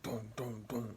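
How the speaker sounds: three thudding dooms in a row; imitated escalating vibrations. Describing vibrations escalating each time, imitated thuds. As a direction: voice the booms closer together. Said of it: "slowly escalated in the vibrations".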